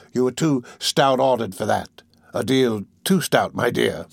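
slow, measured, humouring praise; slow flattery. Acted. Fagin soothes his dupe, slow flattery. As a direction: flatter him, taking your time.

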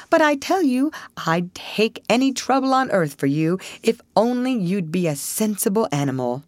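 lightly squeaky pleading rat; twitchy squeaking rat voice. Acted.

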